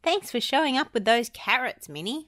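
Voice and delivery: high grateful goofy voice. A narrator's reading. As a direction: thank her, still shaken. Goofy thanking Minnie.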